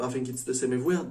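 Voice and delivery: usual speaking voice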